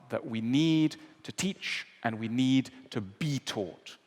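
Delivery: ordinary talk, nothing marked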